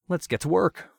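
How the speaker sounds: high, loud gleeful villain. A narrator's reading. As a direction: relish the start of the job. Villain starts work.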